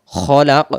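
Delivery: খলাক with heavy rounded "kho" and echoed q; thick kho. Shown as a demonstration. Teacher giving correct sound, খলাক with thick kho. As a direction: round the first syllable of খলাক, release the end. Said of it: "মোটা করে পড়ব".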